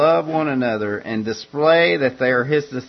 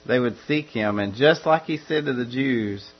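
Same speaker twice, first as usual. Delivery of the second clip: ordinary talk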